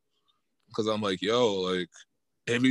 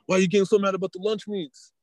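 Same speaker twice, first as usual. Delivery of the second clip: higher, louder mock-annoyed question at the partner; irritated quote; 6 semitones higher, 3 dB louder than usual. Acted quarrel quoting irritated partner.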